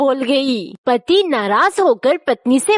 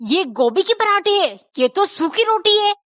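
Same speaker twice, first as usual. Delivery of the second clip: higher, incredulous protest; husband shocked to get dry roti, pitched up; surprised husband; 6 semitones higher than usual. Acted. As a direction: rise up in disbelief at the plate. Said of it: "हैरानी से बोला".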